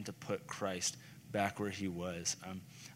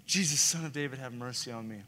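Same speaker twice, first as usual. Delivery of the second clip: raised, higher plea, easing off at the end; crying out; 4 semitones higher than usual. Retold or imitated. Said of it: "He just cried out".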